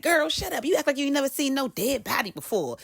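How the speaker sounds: mock-scold someone for overreacting. The speaker to the screaming daughter, scolding.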